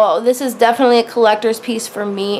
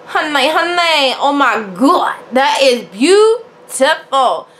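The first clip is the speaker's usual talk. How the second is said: gushing delight; 3 semitones higher, slower than usual. Retold or imitated. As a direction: swoon over a gorgeous piece. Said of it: "or you go".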